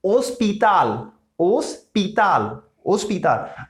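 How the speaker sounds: ओस्पिताल slow with no h; silent h. Shown as a demonstration. Teacher shows hospital without h, slowly. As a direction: say ओस्पिताल starting on O. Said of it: "यहाँ पे भी same है एच silent".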